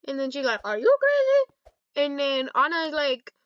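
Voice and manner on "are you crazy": high, slow drawn-out retort; mocking echo. Anna echoing the question back, high slow mockery. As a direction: throw it back high and stretched out.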